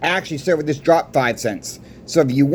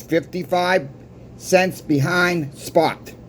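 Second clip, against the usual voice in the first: slow emphasis; 4 dB quieter, slower than usual. Real, not acted. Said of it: "Yeah, you heard me right".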